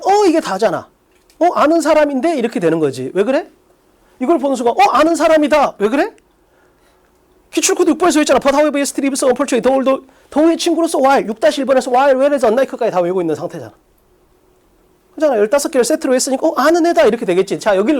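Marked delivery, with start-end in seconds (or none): 0.0-2.4 높은 톤으로 알아보는 학생 흉내; 아는 사람을 발견한 듯 가볍게 놀라며; 반가운 놀람. Acted. 학생이 아는 표현을 알아보는 반응. 4.7-5.8 높은 톤으로 알아보는 학생 흉내; 아는 사람을 발견한 듯 가볍게 놀라며; 반가운 놀람. Acted. 학생이 아는 표현을 알아보는 반응. 16.5-17.0 높은 톤으로 알아보는 학생 흉내; 아는 사람을 발견한 듯 가볍게 놀라며; 반가운 놀람. Acted. 학생이 아는 표현을 알아보는 반응.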